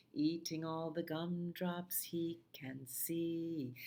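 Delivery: very slow whispered phrase; whispered song line. Acted.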